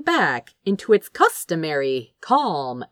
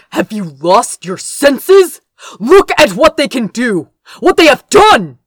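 rising angry shout, higher and louder to the end; incensed outburst; 5 semitones higher, 9 dB louder than usual. Acted. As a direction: let the fury climb to a yell. Gabriel incensed at the destruction.

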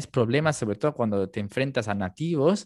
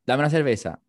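curt, louder order at the bar; blunt Spaniard imitation; 5 dB louder than usual. Imitating Spaniards ordering beer, blunt and loud. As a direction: bark it out like a rude local. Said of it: "me parece tan grosero hablar así".

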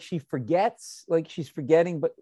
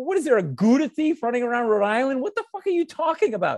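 higher, mocking exasperation; exasperated rant; 7 semitones higher than usual. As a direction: scoff at the absurd excuse. Ranting at mother about cheese.

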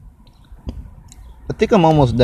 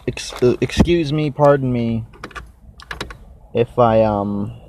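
mouth full. Real, not acted. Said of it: "if I'm chewing stuff".

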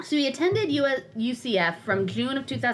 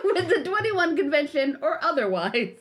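lowered smug self-important voice; mock him with a lowered smug drone; Anthony Dream Johnson voice. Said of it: "Let me try to get my Anthony Dream Johnson voice".

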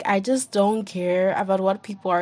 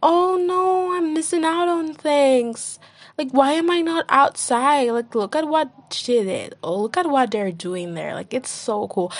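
mock FOMO whine; 6 semitones higher than usual. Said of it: "and be like".

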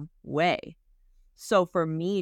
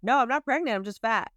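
punchy, louder, matter-of-fact no; blunt retort; 5 semitones higher, 3 dB louder, faster than usual. Retold or imitated. Woman telling nosy relatives she's just fat, punchy and bold. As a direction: snap it back cheerfully. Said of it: "responding with".

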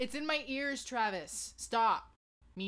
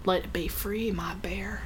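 whispered. Pretend. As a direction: coo it, dropping to a whisper. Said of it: "that was fucking awesome".

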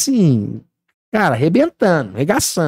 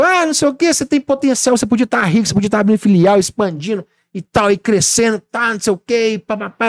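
higher, mocking voice of pushy advisers; mock nagging; 4 semitones higher than usual. A hint of mocking the people who say he could be rich. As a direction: parrot the naggers in a high sing-song.

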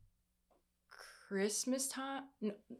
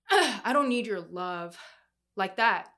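emphatic plea; 6 dB louder, slower than usual. Retold or imitated. Emphatic plea to her mom.

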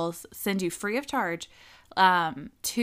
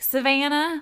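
"Savannah" high and loud in a Spanish accent; 7 semitones higher, 6 dB louder than usual. Shown as a demonstration. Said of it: "With the accent".

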